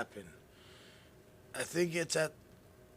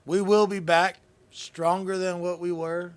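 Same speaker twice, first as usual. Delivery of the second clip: loud rallying vow; 3 semitones higher, 6 dB louder than usual. Real, not acted. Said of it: "But I will say this".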